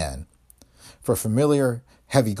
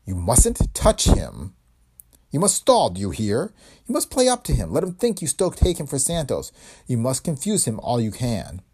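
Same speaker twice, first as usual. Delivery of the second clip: a hint of a snarl, emphatic; 4 semitones higher than usual. De Leon snarling orders at the dame. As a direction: command her with a snarl. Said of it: "His voice came in a snarl".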